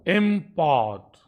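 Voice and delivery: इम्पोर्ट said slowly, weight on पोर्ट; stress on second syllable. Shown as a demonstration. Teacher showing where verb stress falls, इम्पोर्ट stressed on पोर्ट. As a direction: draw out इम्पोर्ट in two parts, im-PORT. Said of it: "second syllable पे".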